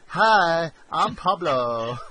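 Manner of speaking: slow, drawn-out greeting; mock Pablo. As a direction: stretch out the intro like a hammy flirt. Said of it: "that was the only English he knew".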